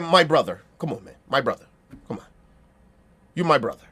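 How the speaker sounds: mocking someone putting on a proper voice; phony proper voice. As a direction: overdo it like a try-hard. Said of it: "No, we don't speak like that".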